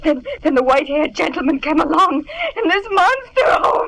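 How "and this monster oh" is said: tearful fright. Acted. Maid crying over the attack.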